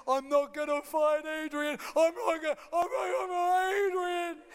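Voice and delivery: hammed-up tearful boxer; Rocky. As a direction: blubber it like a distraught fighter. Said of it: "And Rocky goes".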